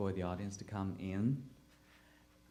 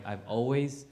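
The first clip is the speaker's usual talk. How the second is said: usual speaking voice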